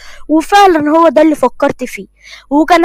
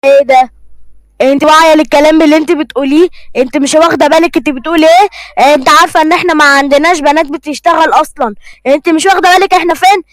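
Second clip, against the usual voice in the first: angry father. Acted. Father scolds daughter about working.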